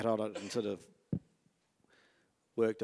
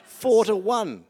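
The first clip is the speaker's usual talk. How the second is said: laughing; 10 semitones higher, 9 dB louder, slower than usual. Real, not acted. Mock outrage over wine trade.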